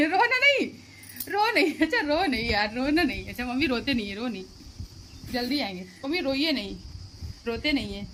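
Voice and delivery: soothing, coaxing, with a little laugh; comforting mother. Real, not acted. Daughter leaving home soothes her crying mother, coaxing. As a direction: gently beg her not to cry.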